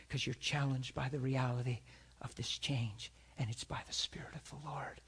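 intense whisper. Real, not acted. Preacher whispering to the congregation about the Spirit. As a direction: drop to a hushed whisper.

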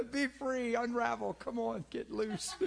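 loud, high, cheering call to let go; rally the crowd to loosen up, laughing; excited urging. Real, not acted. Preacher urging congregation.

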